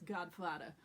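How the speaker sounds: "Godfather" with hard d for th and dropped r, "Godfadda"; New York "Godfather". Shown as a demonstration. Coach jokes with the script's version, New York "Godfather". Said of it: "or in our case".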